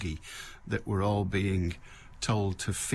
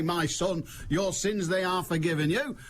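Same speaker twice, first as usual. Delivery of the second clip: mocking Jesus imitation; 6 semitones higher than usual. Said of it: "and you say".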